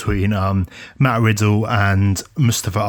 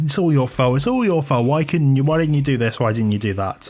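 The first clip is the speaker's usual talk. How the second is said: higher-pitched complaint without real volume; retold mock shouting; 5 semitones higher than usual. Wrestling co-host retelling Ali blaming the group, mild mock shout. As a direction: imitate an accusing rant, pitched up. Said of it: "Ali starts shouting at them again".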